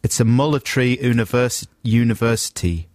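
halting attempt at a South African accent; careful phonetic South African reading. Shown as a demonstration. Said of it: "he should just sound perfectly South African".

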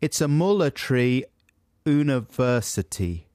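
reading "military" as "mɔlətəɹi", a light South African try; a phonetic South African line, lightly done; South African accent. Shown as a demonstration. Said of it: "he should just sound perfectly South African".

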